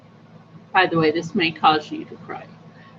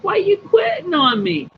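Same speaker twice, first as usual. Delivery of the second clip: retold high-pitched protest, falling away at the end; mock-plaintive questioning of someone leaving; dismayed protest; 10 semitones higher, 3 dB louder than usual. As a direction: pitch it high, as if taken aback. Protests doctor's news in retold exchange.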